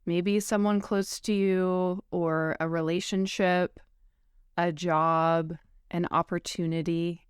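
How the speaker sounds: slightly slowed meditation welcome, spacious pauses; gently paced, unhurried guiding into rest; guided meditation. Acted. Yoga teacher opens a practice for grief, guided meditation.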